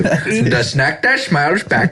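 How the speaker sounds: slow mock Indian accent. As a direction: say it like a tech support agent. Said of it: "You did it in an Indian accent".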